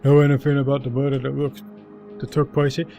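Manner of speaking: gruff lumbering troll. Acted. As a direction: talk like a big dumb troll. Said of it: "carry on doing my troll voice".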